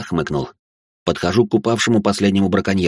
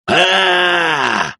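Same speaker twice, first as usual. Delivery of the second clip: drawn-out wail as he yells; yelled; 8 semitones higher than usual. A narrator's reading. Narrator wailing for the hunter losing his finger. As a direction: let the narration howl. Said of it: "завопил мужик".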